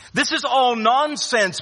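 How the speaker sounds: 3 brush it off with scorn; 1 scornful dismissal. Retold or imitated. 4 Peter dismissing his accuser, scornful and drawn out. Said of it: "Peter says".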